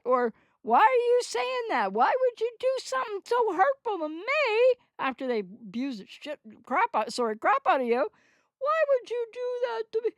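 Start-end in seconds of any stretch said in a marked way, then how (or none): 0.6-4.8 high, wounded mock victim pleading; whiny victim voice. A therapist mimics a borderline partner playing victim, high and whiny. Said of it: "they're gonna say". 8.6-10.1 high, plaintive, wounded voice; mock victim whine. Therapist imitates an abuser turning victim, high and whiny. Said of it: "It's just that more victim".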